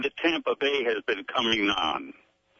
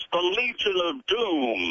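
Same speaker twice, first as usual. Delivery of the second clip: slow dramatic Legion of Doom; wrestling announcer; 3 semitones higher, slower than usual. Acted. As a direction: draw it out like a ring announcer. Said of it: "that was excellent, the way you delivered that".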